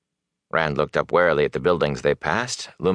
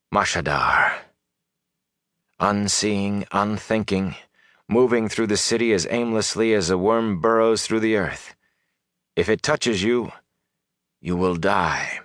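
a hint of a solemn wise woman, measured phrases; understated ominous warning from a sorceress; lightly voiced grave sorceress; 3 semitones higher than usual. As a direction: warn them gravely, in a lightly put-on voice. Voices Moiraine explaining the danger.

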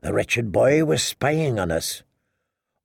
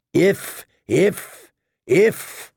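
higher, scolding woman's voice; berating queen; 6 semitones higher, much slower than usual. Acted. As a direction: scold him sharply. Cersei repeating scornfully.

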